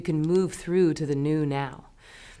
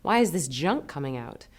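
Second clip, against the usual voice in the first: confused inner voice; 3 semitones higher than usual. Retold or imitated. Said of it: "you're like".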